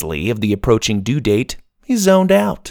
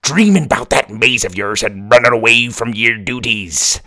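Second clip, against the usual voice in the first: pirate voice. Acted. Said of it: "the book went on".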